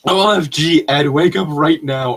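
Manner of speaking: hammed-up screaming to wake Ed; mock scream. Girl screaming at Ed to wake up, mock shriek. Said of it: "I screamed".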